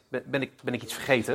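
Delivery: quick, hushed, alarmed question; startled husband. Retold or imitated. Startled husband asks his wife if he forgot something. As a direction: blurt it out nervously under your breath. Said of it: "Hij keek verschrikt".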